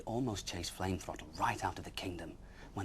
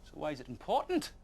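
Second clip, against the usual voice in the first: demanding; 8 semitones higher, 6 dB louder than usual. Acted. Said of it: "demanded Flame Throttle".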